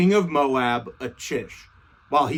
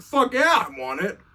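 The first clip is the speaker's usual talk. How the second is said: higher, pumped exclamation; eager yes; 3 semitones higher than usual. Retold or imitated. David jumping at Goliath's sword, higher and pumped. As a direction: jump at the offer.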